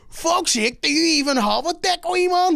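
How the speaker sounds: mock aggressive guy. Retelling the stranger in the stall, mocking aggressive voice. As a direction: imitate the rough stranger with a sneer. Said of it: "and he went".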